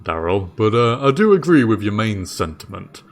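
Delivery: bewildered jailer, thinking it through aloud; Dave the jailer. Acted.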